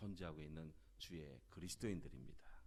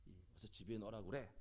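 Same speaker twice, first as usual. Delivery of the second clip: imitated angry outburst; 3 semitones higher than usual. Businessman berates a waiter over spilled wine, retold angry outburst. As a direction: act out an indignant customer telling someone off. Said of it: "불같이 화를 내면서".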